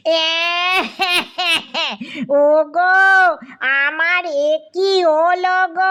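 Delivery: theatrical bleating lament; hammed-up crying. A narrator's reading. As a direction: bawl it out slowly with staged sobs. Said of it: "কুট্টি মামা কেঁদে বললেন".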